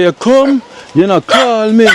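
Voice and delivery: teasing imitation of a grumbling woman; mimicking her. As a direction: parrot her complaint in a high voice. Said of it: "She say".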